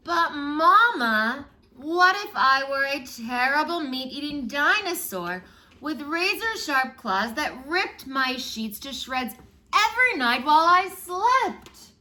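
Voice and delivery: put-on high, loud, slow pleading little kid; child's voice. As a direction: whine it out like an eager child begging mama. Child asking mama again.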